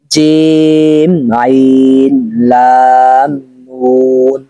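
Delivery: each letter name spelled out slowly and evenly; slow letter drill. Shown as a demonstration. Teacher spelling a word for students, slow letter drill. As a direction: recite the letters one by one for learners.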